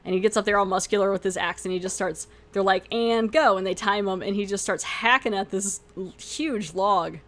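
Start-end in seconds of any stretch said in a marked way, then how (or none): 2.9-3.6 starting call. Retold or imitated. Workers start a timed contest.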